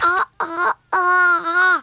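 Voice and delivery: talking with mouth wide open. Acted. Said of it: "C'est très difficile de parler avec la bouche grande ouverte".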